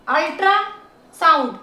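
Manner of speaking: अल्ट्रासाउंड as अल्ट्रा, then साउंड; segmented अल्ट्रासाउंड; syllable by syllable. Shown as a demonstration. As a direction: draw out the parts of अल्ट्रासाउंड. Teacher splits word into syllables.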